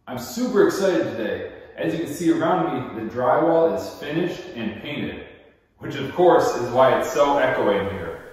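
echoey empty room; talking in a bare echoing room; cave echo. Real, not acted. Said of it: "Sounds like we're in a cave".

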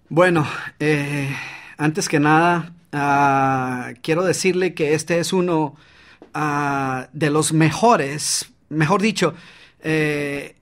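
halting speech full of eh and ah; hesitant with fillers. Shown as a demonstration. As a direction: stumble unsure through the pitch. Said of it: "Estas muletillas que observaste".

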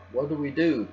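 small, high panicky voice; squeaked. A narrator's reading. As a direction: squeak it out in alarm. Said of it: "Peter squeaked".

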